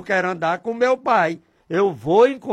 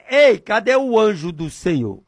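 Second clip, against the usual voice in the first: insistent call in prayer; calling to God; 3 semitones higher, 5 dB louder than usual. Shown as a demonstration. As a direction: call out as if summoning someone. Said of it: "Eu digo desse jeito". (chamando por Deus)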